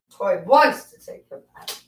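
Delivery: bath-time chant for the dog; pet voice. Real, not acted. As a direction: coo and sing it to a dirty pup. Baby talk to the dog.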